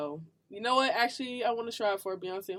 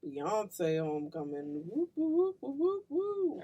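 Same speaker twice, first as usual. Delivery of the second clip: sarcastic; 4 semitones higher, slower than usual. Acted. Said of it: "Are you being sarcastic?".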